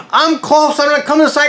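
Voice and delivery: high, strained medic's yell; retold yelling. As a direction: yell it over the patient's screams. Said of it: "He's yelling back at me".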